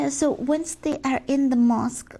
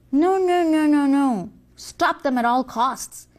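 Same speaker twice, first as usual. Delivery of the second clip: alarmed shout; 3 dB louder than usual. Acted. Devil alarmed at mosque crowd.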